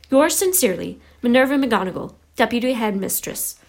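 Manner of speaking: crisp official letter; measured, proper read-aloud; formal letter reading. A narrator's reading.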